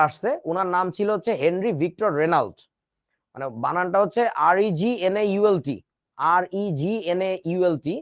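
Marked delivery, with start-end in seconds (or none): 6.2-7.9 slow, deliberate letters for dictation; slow spelling. Shown as a demonstration. Teacher spelling the name for students, slow. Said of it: "তো উচ্চারণটা জি silent".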